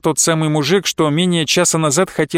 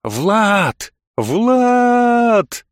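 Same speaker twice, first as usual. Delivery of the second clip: shaman's shout; 6 semitones higher than usual. A narrator's reading. Shaman calling Vlad through the noise, shouting. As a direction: call rising to a high yell. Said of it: "Крик шамана".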